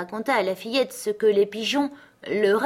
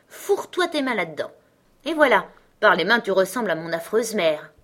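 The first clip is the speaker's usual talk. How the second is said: put-on a bossy young robber girl, a touch higher; 3 semitones higher than usual. Robber girl inviting Gerda to bed, a hint of bossy. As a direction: play the wild robber girl, lightly.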